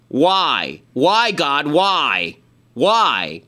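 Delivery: mock-anguished cry to God; anguished exasperation. Real, not acted. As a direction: plead to the heavens in disbelief. Exasperated lament at Trump's tweet.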